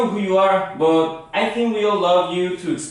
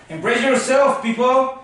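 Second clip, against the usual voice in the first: raised announcer build-up to a name; show-host introduction; 4 semitones higher than usual. Pretend. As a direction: hype the guest's entrance. Host hypes next guest's entrance.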